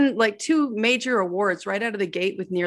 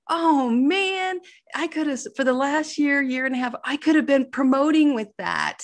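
higher-pitched retold regret; exasperated regret; 5 semitones higher than usual. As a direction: mildly lament the missed chance, voice lifted. Retelling her regret at missed promotion.

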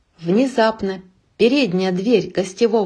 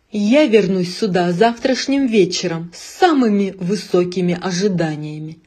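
ominous; 3 dB louder than usual. Acted. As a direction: promise it like a dark lord. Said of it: "зловеще произнёс Эго".

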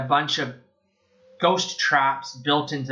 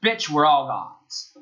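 slow, lightly imitated attitude; mock comeback with some attitude; Winston; 3 dB louder, slower than usual. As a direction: stretch it out like a cocky retort. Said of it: "that was his attitude".

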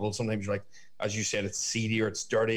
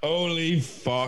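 shocked; 6 semitones higher, much slower than usual. Real, not acted. Reacting to the cancelled-wedding reveal.

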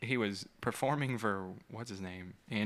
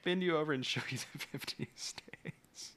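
imitating Greg; 4 semitones higher than usual. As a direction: drag it out in a mock seductive line. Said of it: "he said".

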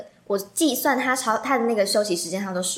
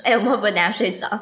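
quicker, brighter retelling of the line; faster retold worry; 3 dB louder, faster than usual. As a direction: say it quick and light. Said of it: "然后说". (语速加快地复述)

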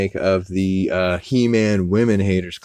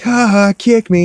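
high, loud taunting laugh-line; mock teacher laugh; 13 semitones higher, 9 dB louder than usual. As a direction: bellow it like a gleeful bully teacher. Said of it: "the teacher is like".

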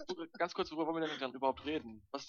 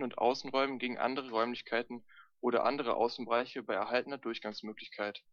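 reading aloud. Acted. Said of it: "den Wikipedia-Artikel auch mal vorlesen".

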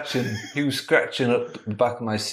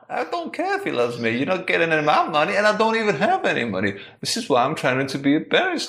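higher, fast, fed-up refusal; exasperated refusal; 6 semitones higher, faster than usual. Acted. Jeff refusing the crazy man's demand for money, fast exasperated refusal. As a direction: brush off the pest in a rush.

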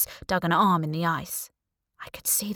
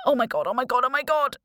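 rising, louder panic; panicked; 6 semitones higher, 4 dB louder, faster than usual. A narrator's reading. Trapped girl panicking over the crab, louder and higher. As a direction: spiral into panic.

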